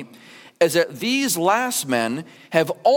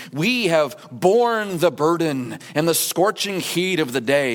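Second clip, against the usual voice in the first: dramatic self-pity. Retold or imitated. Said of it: "their dramatic, self-aggrandizing claim".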